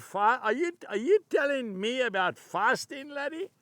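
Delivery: imitated incredulous Scottish dad; broad Scottish accent. Scottish father doubts his Christian son's advice, broad Scottish accent. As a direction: challenge the lad in a mock Scottish accent, pitch lifting at the end. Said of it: "He had a very broad Scottish accent".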